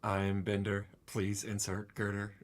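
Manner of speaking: lightly voiced robot, measured and deliberate; a hint of a cartoon robot voice; Bender. Player trying out the robot's voice for a friend, lightly put on. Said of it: "I gotta work voice".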